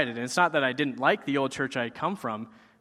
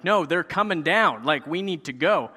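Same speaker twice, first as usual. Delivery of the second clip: louder, higher retold panic; mock freaking out; 4 semitones higher, 5 dB louder than usual. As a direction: urge someone to flee, half in earnest panic. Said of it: "freaking out".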